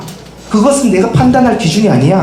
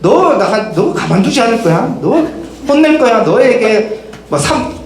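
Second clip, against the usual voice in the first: threatening pagan god. Acted. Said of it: "이방신들처럼".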